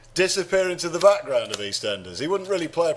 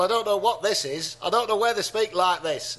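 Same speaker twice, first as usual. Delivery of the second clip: attempted Lancashire accent, slightly off; 3 semitones higher than usual. Shown as a demonstration. Podcaster unsure where they speak like this, Lancashire accent. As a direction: slip into vague Lancashire. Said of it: "That's Lancashire".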